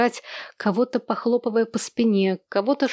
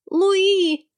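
very high loud shriek; furious piercing call; piercing shout; 11 semitones higher, 4 dB louder than usual. A narrator's reading. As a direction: scream her name. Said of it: "пронзительно крикнула невидимая Хенни".

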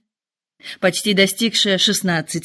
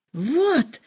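вскрик; 8 semitones higher than usual. A narrator's reading. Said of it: "вскричала миссис Беннет".

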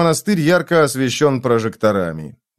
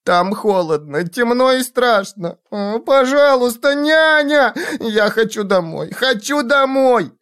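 put-on very high pleading child voice; frightened child; 10 semitones higher than usual. A narrator's reading. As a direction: beg for nanny like a scared little one. Child begs to go home.

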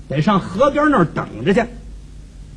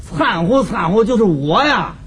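neighbour's broad Tianjin dialect; thick Tianjin accent. Acted. Neighbour explaining his dialect words, thick Tianjin accent. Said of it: "说话天津口音非常的浓".

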